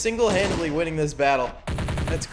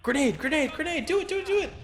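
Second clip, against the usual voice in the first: grenade warning yell; 12 semitones higher, faster than usual. Real, not acted. Urging soldier to throw grenade.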